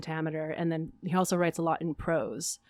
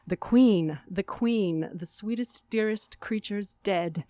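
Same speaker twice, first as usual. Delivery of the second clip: grieving declamation; 3 semitones higher, slower than usual. Acted. Grief peak of monologue.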